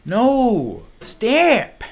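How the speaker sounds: high, loud panicked scream. Real, not acted. Gamer screaming as his climber falls, loud high panic. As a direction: yell at the falling climber to stop. Player falling, screaming at game.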